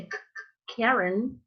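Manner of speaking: whispered K bursts, then Karen with an aspirated K; American-style Karen with a breathy K burst; puffed K. Shown as a demonstration. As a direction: isolate the K in Karen as puffs of air, then say it. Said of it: "you say".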